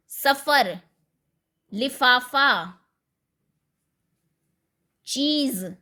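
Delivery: सफर लिफाफा चीज with f and z, लिफाफा slowly; nukta sounds. Shown as a demonstration. Teacher listing nukta words for students. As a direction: lean on the f and z sounds. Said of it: "नुक्ता लगा के".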